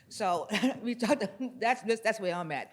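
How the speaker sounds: laughing a little as she wraps up. Real, not acted. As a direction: let a laugh break through the ending.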